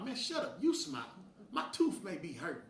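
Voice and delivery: high, snappy retort; irritated retort. Real, not acted. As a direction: bite back, fed up. Retort to "smile" demands.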